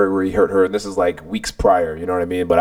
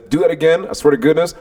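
higher, mildly barked threat; retold barking; 4 semitones higher than usual. Warning the boy chest to chest, mildly barking. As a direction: dare him with rising restrained anger. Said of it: "literally barking in his ear".

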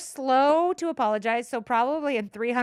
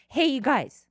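lightly acted, louder pitch to a crowd; pitching newcomer; 4 semitones higher, 4 dB louder than usual. Newcomer announcing a religion to locals, mock pitch. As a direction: hail the crowd as an eager newcomer.

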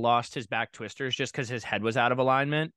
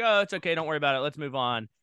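lightly higher-pitched "no big deal" tone; feigned nonchalance; 3 semitones higher than usual. Retold or imitated. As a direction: retell brushing it off to reassure a diver. Coach acting unbothered for diver.

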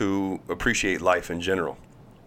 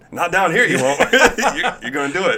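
mock scolding; 9 semitones higher, 8 dB louder than usual. Colby mock scolding, retold.

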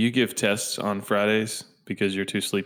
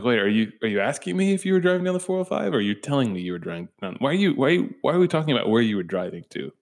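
confused reply; 3 semitones higher, faster than usual. Retold or imitated. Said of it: "And I'm like".

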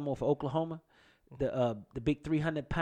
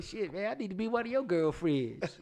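joking, laughing; 4 semitones higher, 4 dB quieter than usual. Retold or imitated. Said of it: "I'm like".

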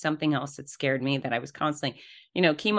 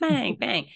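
imitated MRI banging; 6 semitones higher than usual. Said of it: "Thor bangs his hammer".

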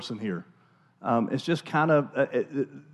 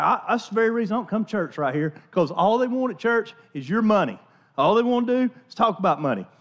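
Southern redneck complaint, pitched a bit higher; mock Southern redneck voice; southern redneck accent; 4 semitones higher than usual. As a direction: mimic a grumbling churchgoer in redneck twang. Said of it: "in a very southern redneck accent".

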